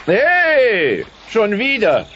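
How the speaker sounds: high, loud yelp of protest; outraged yelp. Acted. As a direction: cry out at being hit again. Roy hit once more.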